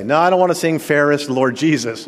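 loudish mock retort to the churchgoer; playful pretend refusal. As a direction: act out an imagined flat-out no. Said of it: "What am I gonna say?".

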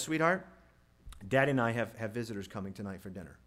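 a hint of sugary coaxing to a child; coaxing parent. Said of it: "For example, parent says".

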